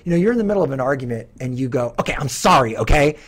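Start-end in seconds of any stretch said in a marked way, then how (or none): 2.0-3.2 loud, exasperated sorry tossed off mid-fight; grudging apology. Pretend. Partner mid-argument, louder exasperated throwaway apology. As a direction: snap out a sorry you don't mean.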